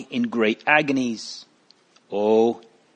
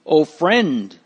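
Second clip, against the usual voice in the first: a light call to a stranger ahead; 4 semitones higher, 3 dB louder than usual. Acted. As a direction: call to him from a distance, not shouting. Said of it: "Mister Greatheart called".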